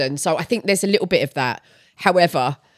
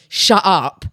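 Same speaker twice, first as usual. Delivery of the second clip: Essex "shut up"; Essex catchphrase; 3 semitones lower than usual. Retold or imitated. Quoting the show's catchphrase, Essex accent. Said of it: "how it was pronounced, obviously, in the show".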